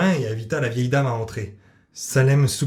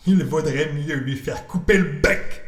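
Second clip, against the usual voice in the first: Salem the cat; 3 semitones higher, slower than usual. Acted. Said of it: "pensa Salem".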